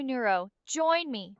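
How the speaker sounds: slow, begging "join me"; pleading. Pretend. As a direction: plead with her to "join me", drawn out. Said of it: "So I'm begging you".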